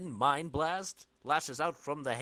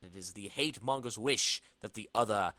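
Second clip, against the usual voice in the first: comic narration. A narrator's reading. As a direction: read it like a comic announcer.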